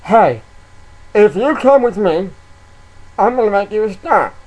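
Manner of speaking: hammed-up sleazy promoter; sleazy fake producer. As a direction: lure them in like a shady producer. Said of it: "dress up in a suit".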